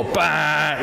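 imitated "baloney detector" bleat; buzzer noise. Shown as a demonstration. Showing children the baloney detector, imitated buzzer noise. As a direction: sound off like an alarm going "bah". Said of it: "your baloney detector".

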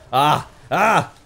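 short loud high cry; sharp effortful "ah"; combat yell. Real, not acted. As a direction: yelp with each swing. Yelling while attacking in game.

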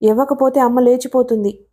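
plain reading voice

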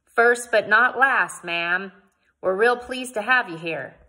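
loud, drawn-out pioneer's greeting; Mister Russell. A narrator's reading. Pioneer welcoming Missus Frink, loud and courtly. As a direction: lean hard and slow on the opening words.

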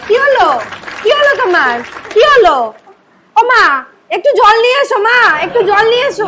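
alarmed and pressing; panicked calling. Acted. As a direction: call for help in a panic. Alarm at collapse, calls for water.

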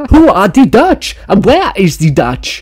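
high, loud, drawn-out silly voice; mock baffled questioner. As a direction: squeal the question in exaggerated bafflement. Mockingly repeats the question he read.

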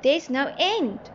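high, emphatic exclamation; amazed cry. A narrator's reading. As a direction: cry out in awe, stretching the words. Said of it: "the passengers cried".

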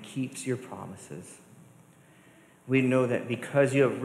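earnest, measured prayer to God; closing prayer. Real, not acted. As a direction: lead the church in prayer.

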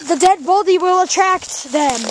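put-on measured, clearly spoken British accent. Presenter repeating for a puzzled friend, British accent. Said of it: "understanding my British accent".

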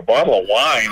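retold disbelief on "Bottle of wine"; incredulous echo. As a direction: echo "Bottle of wine" back as a puzzled question. Echoes the offer back in disbelief.

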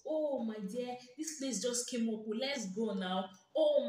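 mock eager friend. Mimics friend always seeking outings.

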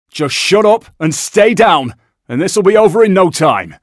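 loud, firm robbery announcement; loud hostage address. Acted. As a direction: command the room and calm the hostages. Heister addressing hostages in a bank.

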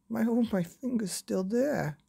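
high, relieved father's exclamation; exclaiming father. Acted. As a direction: marvel that his finger survived. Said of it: "exclaimed Father".

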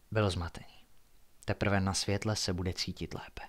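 measured, hushed suspense reading; low-key storyteller with deliberate pauses; story narration. A narrator's reading. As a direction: read a mystery aloud at night. Narrates a night-time story.

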